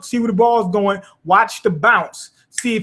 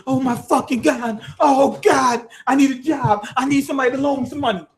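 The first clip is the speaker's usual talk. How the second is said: panicked; 6 semitones higher than usual. Retold or imitated. Imitating panic over unpaid bills.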